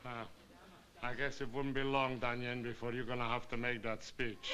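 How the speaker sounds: talking around a thermometer in mouth. Real, not acted. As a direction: speak with a thermometer between lips. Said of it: "What are you doing with a thermometer in your mouth?".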